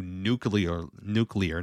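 "nuclear" said as NEW-klee-er; correct pronunciation. Shown as a demonstration. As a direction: say "nuclear" carefully with klee-er at the end. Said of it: "not nuclear".

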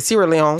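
Sierra Leone run together as the newsreader garbles it; mimicked mispronunciation. Showing co-host what he said, mimicked mispronunciation of Sierra Leone. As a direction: imitate the wrong, accented "Sierra Leone". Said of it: "I don't know what the heck he did".

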